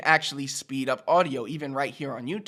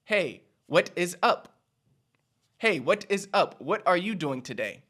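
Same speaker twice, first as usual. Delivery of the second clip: stiff formal greeting; 3 semitones higher than usual. Shown as a demonstration. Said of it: "what sounds more natural".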